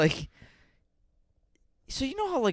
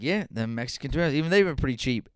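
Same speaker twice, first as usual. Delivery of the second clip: imitating grandpa; 4 semitones higher, 6 dB louder, faster than usual. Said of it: "he's like".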